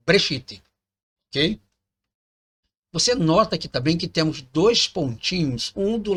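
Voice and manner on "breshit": Breshit said as one syllable, the e dropped; right version. Shown as a demonstration. Teacher correcting Bereshit to Breshit, clipped. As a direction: clip it to Breshit. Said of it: "ele fala que é".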